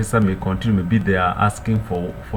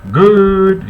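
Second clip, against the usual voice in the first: pleased praise; 10 semitones higher, 8 dB louder than usual. Real, not acted. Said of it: "teacher praising the learner".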